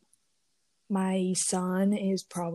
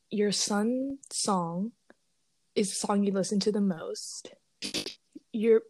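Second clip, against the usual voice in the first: glitchy robotic call audio; robot voice breaking up on the call. Real, not acted. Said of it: "You sound like a robot".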